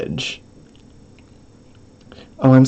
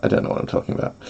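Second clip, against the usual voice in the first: soft whisper of the same words; 7 dB quieter, much faster than usual. Shown as a demonstration. Streamer repeats herself as a whisper. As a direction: breathe it out unvoiced. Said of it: "repeated whispered".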